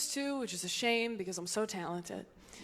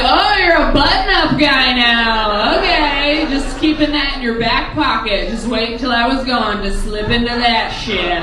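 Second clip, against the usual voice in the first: sarcastic; 17 dB louder than usual. Acted. Comic addresses ex in new shirt, bitterly sarcastic. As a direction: stretch it with petty indignation.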